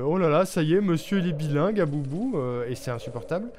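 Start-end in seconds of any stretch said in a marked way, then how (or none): 0.0-2.3 louder, higher mock outrage. People jeering at someone with a good accent, mocking. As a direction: imitate scoffers jeering at a show-off. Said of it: "on va dire que tu te la pètes".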